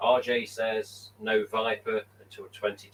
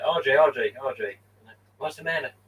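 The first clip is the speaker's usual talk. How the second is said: louder, higher teasing call of the name; mock calling out; 4 semitones higher, 5 dB louder than usual. Pretend phone call pestering RJ, loud teasing call. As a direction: hail a friend on the phone, pestering. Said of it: "I'll say".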